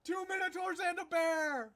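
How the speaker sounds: high, loud showman call; arena announcer. Acted. The host hushing the arena for Chunk, high announcer call.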